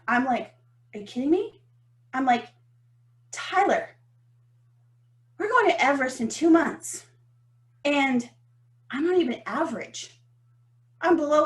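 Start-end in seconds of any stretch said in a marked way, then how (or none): 0.9-7.1 mock meltdown. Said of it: "I have a meltdown".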